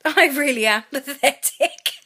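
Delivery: a tearful laugh at herself; laughing through tears. Real, not acted. Pregnant mum mocking herself, laughing tearfully. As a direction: laugh it off while still crying.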